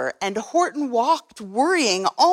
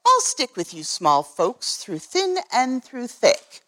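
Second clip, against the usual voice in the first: Horton; 2 semitones higher than usual. Acted. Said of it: "Horton answered".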